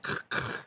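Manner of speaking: short harsh voiceless bursts; imitated attack noise. Game master recreating the attack's sounds, mimicked noise.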